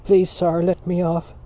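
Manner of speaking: half-hearted crying plea; mock crying. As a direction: pretend to beg through fake tears. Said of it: "said in a crying voice".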